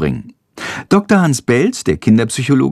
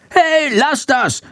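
high, slow squeaky scold; shrill scolding bat; slower than usual. A narrator's reading. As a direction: screech it like an angry little bat. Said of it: "keift Chandor".

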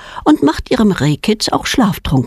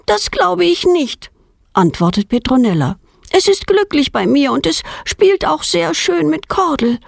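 put-on defiant girl; 9 semitones higher than usual. A narrator's reading. Girl contradicts father.

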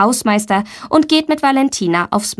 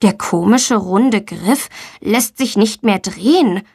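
ordinary delivery, nothing marked

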